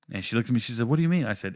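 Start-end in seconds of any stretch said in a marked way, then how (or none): 0.9-1.2 put-on high girlfriend voice. Girlfriend confronted, quoted by teller.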